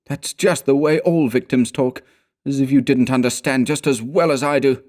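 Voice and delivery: bitter contempt with weary resignation; scornful sneer. A narrator's reading. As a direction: sneer at a willfully blind friend. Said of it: "He sneered with scorn in his voice".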